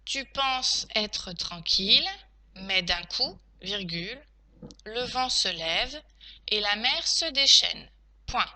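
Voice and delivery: slow teacher dictating, punctuation named; careful, spaced-out phrases; dictation. Shown as a demonstration. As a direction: dictate it chunk by chunk.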